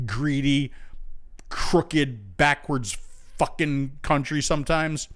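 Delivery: exasperated rhetorical rant; worked-up tirade of pointed questions. Real, not acted. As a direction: drive home each point, indignant. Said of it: "I, I, I ranted".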